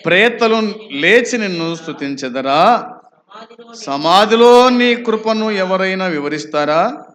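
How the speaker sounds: ringing questions with drawn-out rising ends; declamatory scripture questions. Acted. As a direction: read each verse as a challenge to the congregation.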